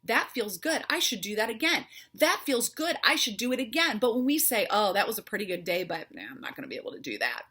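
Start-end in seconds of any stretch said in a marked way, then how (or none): 0.0-4.0 building affirmation. Shown as a demonstration. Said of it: "We say it out loud". 4.7-7.4 defeated self-talk. Retold or imitated. Speaker mimics negative inner voice, resigned and fading. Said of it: "you literally are wiring your old pattern".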